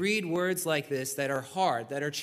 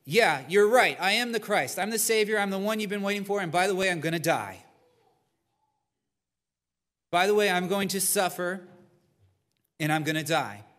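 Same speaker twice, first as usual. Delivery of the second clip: Jesus voiced, emphatic; 3 semitones higher, 5 dB louder than usual. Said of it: "That Jesus says".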